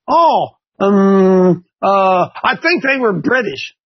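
slow, hesitant imitation of an unsure kid; nervous student. Student quizzed on mom's side, mock nervous and hesitant. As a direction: drag out the fillers, then guess tentatively. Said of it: "they get real nervous".

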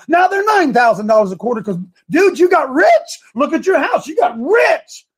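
mocking tax official.

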